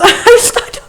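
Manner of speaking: a laugh that cracks into crying; real breaking voice, half laugh half sob; shaky laugh caught by crying; laughing through tears. Real, not acted.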